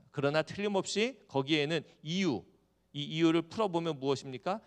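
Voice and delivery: usual speaking voice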